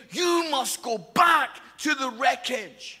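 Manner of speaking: slow, firm retold command; imitated urgent order. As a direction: play a coastguard ordering the captain back. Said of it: "begging the captain".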